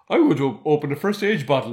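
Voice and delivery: mildly elated, playing a character over the moon; acted delight. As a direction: announce it like a character celebrating. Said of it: "over the moon".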